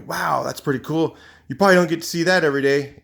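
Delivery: impressed. Retold or imitated.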